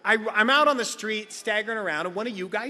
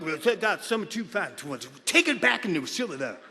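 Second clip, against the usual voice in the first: a hint of a mumbling drunk; slurred drunk; 3 semitones lower than usual. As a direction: garble it like a wasted man. Drunk gibberish impression.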